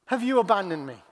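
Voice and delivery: falling away after the outcry; deep heart cry. Acted. Jesus left all by himself, deep heart cry. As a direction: plead it, falling in pitch. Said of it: "It's a deep heart cry".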